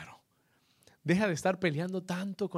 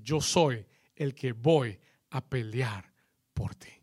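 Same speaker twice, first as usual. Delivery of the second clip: slow, hushed whisper of God's promise; 5 semitones lower, slower than usual. Acted. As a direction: whisper it slowly, like a secret.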